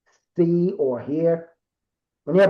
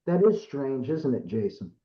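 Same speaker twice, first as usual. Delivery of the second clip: Bob, eerie remark; 3 semitones lower, 5 dB quieter than usual. Retold or imitated. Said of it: "The way he said it made me, like, have goosebumps".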